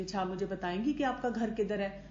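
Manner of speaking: calm, patient question; teacher calmly questioning a late mother. Retold or imitated. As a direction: gently ask where they live. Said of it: "بہت آرام سے اس طرح پوچھتی ہوں".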